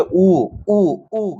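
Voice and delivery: lightly imitated baby sounds; a hint of a babbling infant; baby cooing. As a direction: coo like a toddler without words. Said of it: "बच्चों को भाषा नहीं आ रही है तो वो कह रहे".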